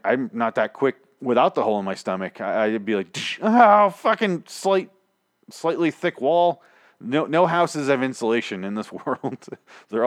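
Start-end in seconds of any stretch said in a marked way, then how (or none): 3.4-6.6 high, slow groaning complaint; drawn-out, higher mock agony; mock pained frustration. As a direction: crash into a wall and grumble loudly. Imagining himself hitting the wall.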